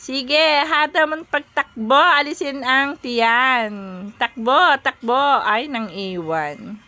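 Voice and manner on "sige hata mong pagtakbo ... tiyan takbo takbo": cheering. Real, not acted. Urging Mister New to run.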